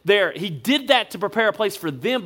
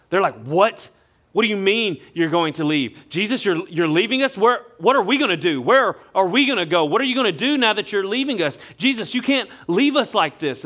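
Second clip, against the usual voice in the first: acted-out panicky questions, slightly raised and pressing; mock panic; 3 semitones higher than usual. Disciples hear Jesus is leaving, questioning him in mild acted panic. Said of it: "These guys are panicking".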